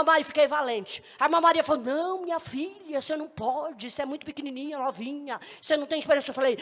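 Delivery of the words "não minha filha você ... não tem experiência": put-on soft, hushed older woman's voice; gentle dissuasion. Irmã Maria cautions an inexperienced girl, softly and gently. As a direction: softly talk the youngster out of it.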